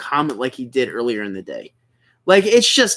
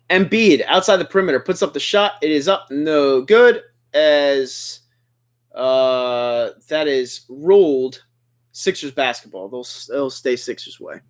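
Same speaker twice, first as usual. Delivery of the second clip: steady basketball commentary, settling lower; live play-by-play; 3 semitones lower, slower than usual. Real, not acted. Streamer calling a Sixers game for viewers, live play-by-play. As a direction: call each pass and shot as it happens.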